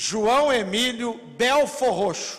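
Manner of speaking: said really loud, slow and proud.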